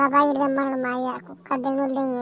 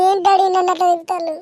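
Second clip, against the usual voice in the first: angry retort; 6 semitones higher, 6 dB louder than usual. Acted. Wife snaps back in quarrel.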